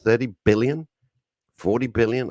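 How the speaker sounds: rising outrage over cost; indignant rant. Retold or imitated. Retold outraged rant on phone.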